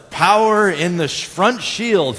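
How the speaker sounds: urgent mock captain's order; Captain Kirk. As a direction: call it out loudly over a radio. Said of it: "He would yell out to Scotty".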